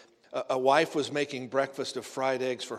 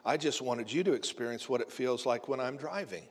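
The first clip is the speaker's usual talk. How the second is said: calm; 5 dB quieter than usual. Acted. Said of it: "the husband calmly replied".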